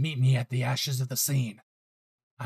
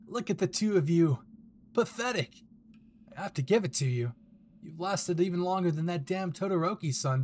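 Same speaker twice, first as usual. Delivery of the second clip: a sneering villain, lightly voiced, savoring the win; mock the heroes, pleased with yourself; smug villain gloating over captives; 4 semitones higher than usual.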